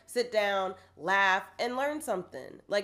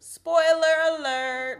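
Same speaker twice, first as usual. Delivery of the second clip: drawn-out announcement; 8 semitones higher, 8 dB louder, slower than usual. Acted. Repeating the podcast spoiler warning.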